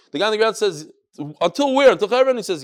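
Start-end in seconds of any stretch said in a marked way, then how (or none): 1.4-2.4 high, loud "Until where?", then "Until Chevron?" rising; acted questioning. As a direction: ask "Until Chevron?" with a lift at the end. Ground man questions the roof man.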